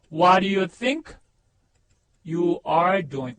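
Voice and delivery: word by word, very drawn out; careful, separated teaching pronunciation; slow model sentence. Shown as a demonstration. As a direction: lay out WHAT DO YOU THINK, pause, YOU ARE DOING.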